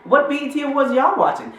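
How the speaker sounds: high, scoffing disbelief; incredulous mock question. Mocking a clueless viewer, high and scoffing. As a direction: act baffled at the whole thing. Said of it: "I'm like".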